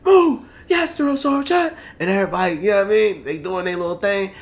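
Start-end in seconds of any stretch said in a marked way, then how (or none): 0.1-0.4 high, barked command rising to loud; drill sergeant command. Retold or imitated. 0.7-1.7 high, slow, drawn-out "Yes, drill sergeant"; barked military recruit reply. Retold or imitated.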